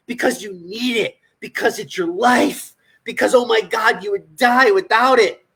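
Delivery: mock-desperate, leaning on the key words; sarcastic. Real, not acted. Coach mocking clients' excuses for soda and beer, sarcastic. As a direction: sarcastically plead the addict's excuse. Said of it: "Do you sense the sarcasm?".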